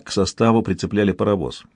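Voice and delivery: ordinary delivery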